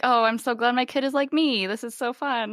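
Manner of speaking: sarcastic parent. Retold or imitated. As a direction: fake delight at your kid's antics. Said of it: "we're like".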